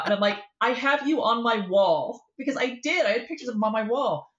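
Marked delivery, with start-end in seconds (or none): 0.6-2.2 high, slow, gushing admission; starstruck confession. Retold or imitated. Teen fan telling the actor about her wall, high and gushing. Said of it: "no chill, no cool".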